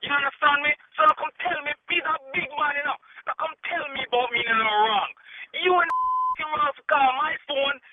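Jamaican run. Real, not acted. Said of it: "you went on a Jamaican run".

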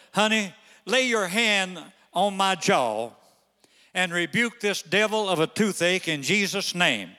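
slow, pleading request to his wife; asking wife gently. Retold or imitated. Husband in pain asking wife to pray, gentle plea. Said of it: "I said to my wife".

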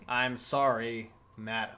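slow, deliberate, firm apology; polite but firm apology. Pretend. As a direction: apologize slowly with a firm edge. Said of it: "Apologize to me politely but firmly".

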